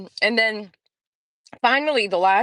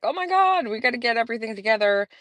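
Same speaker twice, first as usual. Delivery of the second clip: panicked rush; 4 semitones higher, faster than usual. Retold or imitated. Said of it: "and then suddenly it's just like".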